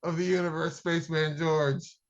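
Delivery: lightly voiced space king; a hint of a grand alien ruler. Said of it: "Hear ye".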